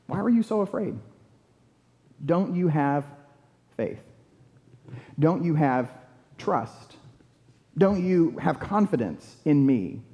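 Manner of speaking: measured, searching, with long pauses; gentle questioning. Acted. Jesus to his frightened disciples after calming the storm, gentle. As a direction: ask it tenderly, leaving room after each question.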